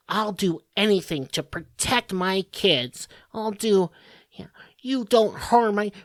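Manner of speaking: prim, slowed mock mom voice, a touch put-on; mock suburban mom. Mocking mothers who post online, a light put-on mom voice. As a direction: lightly send up a self-righteous mom.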